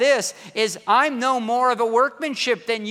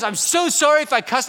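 laughing apology; 7 semitones higher, 6 dB louder than usual. Retold or imitated. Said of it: "And then he goes".

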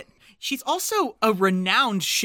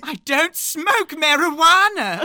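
laughing impression; 8 semitones higher, 5 dB louder than usual. Quoting Maggie Smith's Burnett sketch.

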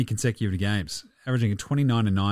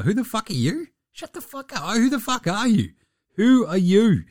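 higher, mocking put-down voice; mock Luka trash talk; 10 semitones higher than usual. Luka brushing off a trash-talking opponent, mocking. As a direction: sneer it out like a dismissive star. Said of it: "That's exactly Luka's response as well".

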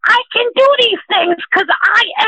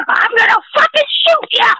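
mock threat; 3 semitones higher than usual. Threatening lawbreakers on air.

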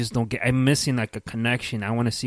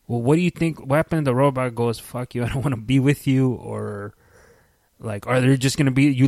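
excited rant; 2 semitones higher, 5 dB louder than usual. Real, not acted. Ranting about robot rejecting him.

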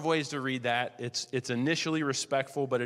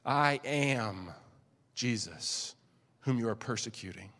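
lower, softer, gentle; soft reply; 7 semitones lower, 5 dB quieter than usual. Acted. Jesus replies softly.

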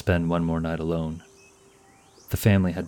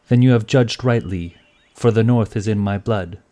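put-on proud young woman; 4 semitones higher, 6 dB louder than usual. A narrator's reading. Astrid retorts proudly to knight.

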